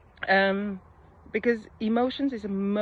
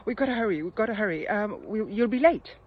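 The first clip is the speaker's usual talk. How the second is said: stressed rushing; 3 semitones higher, 5 dB louder than usual. Retold or imitated. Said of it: "that is not a very constructive way".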